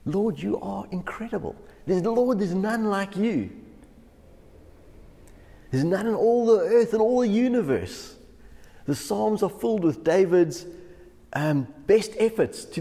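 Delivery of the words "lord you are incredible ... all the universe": worship praise. Shown as a demonstration. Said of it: "let's use wonderful... praise Him".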